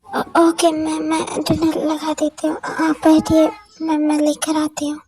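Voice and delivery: lightly voiced girl, stuttering and pleading; nervous stammering girl. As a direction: beg for mercy, tripping over the words. Jimin nervously serving dinner. (हल्की सी घबराई हुई लड़की, हकलाते हुए गिड़गिड़ाना)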